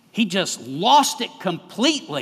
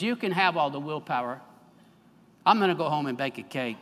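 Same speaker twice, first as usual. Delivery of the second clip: fed-up retort; 3 semitones lower, 5 dB quieter, faster than usual. Acted. Toad gives up.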